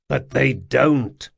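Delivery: slow, gentler reassurance; softening. Acted. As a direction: ease off and reassure him. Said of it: "his voice softening a bit".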